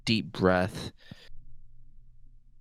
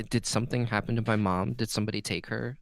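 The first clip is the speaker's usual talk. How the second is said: concerned; 3 dB quieter, faster than usual. Acted. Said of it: "Galen's tone kinda gets, like, m-, concerned".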